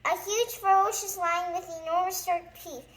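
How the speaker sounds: high, loud hysterical wailing fading out; panic. A narrator's reading. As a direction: wail about the lion, fading at the end. Mister Jelly fears the lion.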